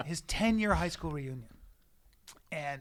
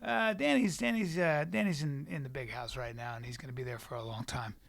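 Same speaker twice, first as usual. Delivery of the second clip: halting, dropping softer and lower; hushed retold confession; reluctant admission; 7 semitones lower, 8 dB quieter than usual. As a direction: break bad news reluctantly, trailing down. Reluctantly breaking bad news.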